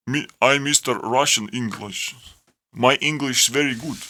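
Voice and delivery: badly faked Russian accent. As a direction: attempt a clumsy Russian accent. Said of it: "I can't even do Russian accent".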